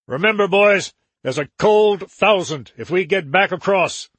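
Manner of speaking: gang boss orders. Acted. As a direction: bark orders at the crew. Joram orders the boatmen.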